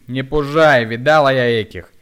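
loud high mocking shout. A narrator's reading. Woman shouts back, mocking the hunchback's threat. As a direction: sneer at his threat loudly.

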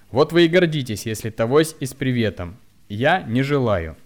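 angry retort. A narrator's reading. Hunchback retorts loudly to the mocking woman. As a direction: fire back at her. Man retorts after shock.

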